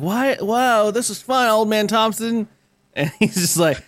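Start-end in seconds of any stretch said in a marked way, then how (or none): 0.0-2.5 put-on high-pitched child voice; mock childlike delight, slowing at the end; innocent happy kids. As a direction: marvel like a naive kid. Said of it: "they're like".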